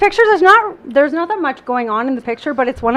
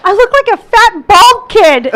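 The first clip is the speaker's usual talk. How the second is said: laughing; 5 semitones higher, 5 dB louder, slower than usual. Retold or imitated. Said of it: "Wendy's like".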